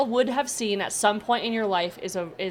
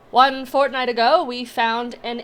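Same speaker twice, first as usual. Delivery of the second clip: high, slow, loud dramatic reading; gnome reading report; 6 semitones higher, 6 dB louder than usual. Acted. Gnome reading the file to the party, slow and dramatic. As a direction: read the findings solemnly.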